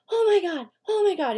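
high, panicky yelps of alarm; imitating a man's overblown food panic; mock freaking out. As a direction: act like you just bit down on glass. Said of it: "He starts freaking out".

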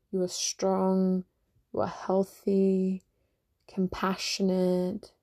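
slow, tender self-love affirmations; gentle affirmation. Real, not acted.

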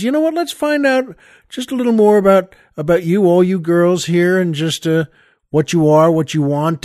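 lightly voiced kindly nun, pitch up; chirpy teacher addressing her class; sweet nun voice. Storyteller voicing a nun asking her class, gently.

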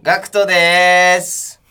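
loud, stretched-out self-introduction; loud name call. Real, not acted. Member introducing himself to radio listeners, drawn-out loud call. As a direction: call your name out and hold it long.

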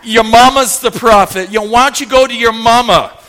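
playful retold trash talk; mama-joke attitude. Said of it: "You know the mama jokes".

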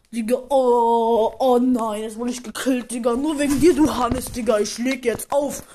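loud, annoyed gamer on the phone; loud annoyed phone call. Acted. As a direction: complain loudly down the line. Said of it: "Der, der einfach während dem Brawl Stars zocken telefoniert".

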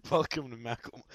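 strained hyped announcer intro. Pretend. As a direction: belt the welcome like a hype man. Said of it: "that killed my voice".

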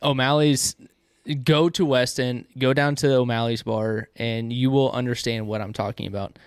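talking around a pipe stem; pipe in mouth. Real, not acted. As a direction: speak with a pipe clenched in teeth. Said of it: "it's hard to talk with".

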